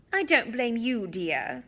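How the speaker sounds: a gently reassuring mother; mother reassuring Harry, lightly warm. Acted. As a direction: soothe the boy kindly. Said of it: "she assured Harry".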